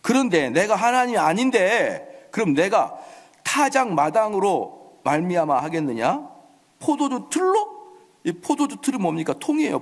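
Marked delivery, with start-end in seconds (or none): 0.0-7.8 slow, incredulous mock questioning; drawn-out sarcastic king, lifting at the end. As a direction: throw it back as a scornful question. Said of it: "아주 빈정거린 겁니다".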